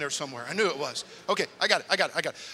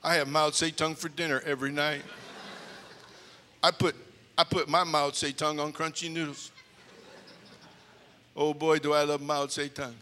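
mock speech; 4 dB louder than usual. Eighth grader gives earnest speech to class, loud. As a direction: deliver it proudly to the class.

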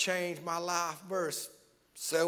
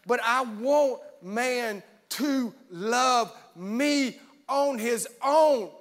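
God rising; 9 semitones higher, 11 dB louder than usual. Acted. God telling man he wants real love, building to a shout. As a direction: let the Lord's voice swell to a shout. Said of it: "He said".

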